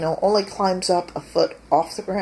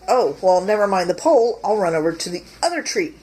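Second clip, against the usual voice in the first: louder, quick, lightly voiced squirrel; squirrel's thoughts; 2 semitones higher, 5 dB louder, faster than usual. Squirrel chased by dog decides to flee to another tree, quick and louder. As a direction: hurry through the squirrel's new plan. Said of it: "the squirrel thinks".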